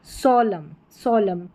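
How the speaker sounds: सोलम ending on m; silent N. Shown as a demonstration. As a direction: say सोलम with no n after the m. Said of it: "एन जो है वो silent है".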